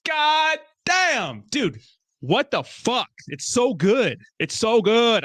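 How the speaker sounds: high-pitched, awestruck raving; overwhelmed excitement. Real, not acted. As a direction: gush as if moved nearly to tears. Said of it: "I, like, I wanna cry".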